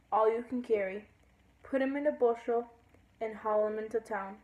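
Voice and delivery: singsong verse in short phrases; lilting poem reading; poem recital. Acted. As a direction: read the poem aloud, each phrase falling at its end. Reads a poem aloud.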